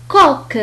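"كوك" with k at both ends. Shown as a demonstration. Teacher modelling French Q for learners, k in "كوك". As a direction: say "كوك" crisply, both sounds like kaf. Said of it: "وهو ينطق مثل الكاف".

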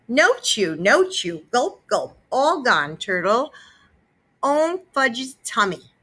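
put-on high toddler babble; babbling. A narrator's reading. Fudge babbling to mom, high and proud. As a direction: chant it proudly like a small child. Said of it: "Fudge babbled".

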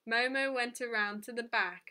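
ordinary delivery

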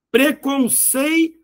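"Preconceito" slowly, held on "cei", then a pause before "to"; drawn-out syllables. Shown as a demonstration. Teacher checking a diphthong, "Preconceito" in slow, split syllables. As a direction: stretch "Preconceito" and detach its last syllable.

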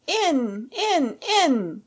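high, urgent shouted order; eager, raging shout. A narrator's reading. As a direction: shout them through the door. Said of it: "he shouted".

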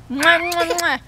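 string of blown kisses; three quick smooches. Real, not acted. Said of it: "we love you".

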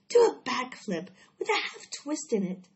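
high, loud coaching cry. A narrator's reading. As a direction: call out a daring order. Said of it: "cried Charlotte".

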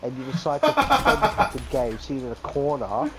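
raging gamer. Real, not acted. Ranting at enemy player.

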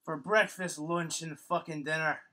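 put-on Irish accent. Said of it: "in an Irish accent".

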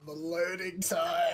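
high, loud, drawn-out cheer at the load screen; excited shout. Real, not acted. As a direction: shout it like the wait is finally over. Game loading, calling out.

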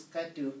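tetu said evenly, falling at the end; even stress. Shown as a demonstration. Teacher showing how she says the word, said evenly. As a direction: say tetu level, dropping at the end. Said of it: "I'm saying it like this".

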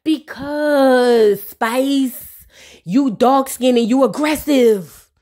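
slow, drawn-out mock explanation; Bambi. Bambi supposedly explains to Spice, slow mock drawl. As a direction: stretch it out in imitation. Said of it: "And look at Bambi".

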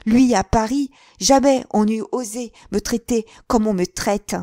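very loud and high throughout; violent outburst. A narrator's reading. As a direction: hurl the accusation at him. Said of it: "reprit-elle avec une violence convulsive".

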